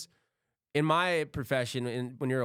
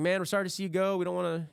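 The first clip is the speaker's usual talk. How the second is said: mock coworkers; 6 semitones higher, faster than usual. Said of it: "everybody was like".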